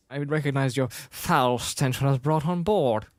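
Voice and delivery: acted English-accented line; haughty film quote, lightly English-accented; Princess Leia. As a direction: deliver it with a hint of English accent. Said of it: "this is when she had an English accent".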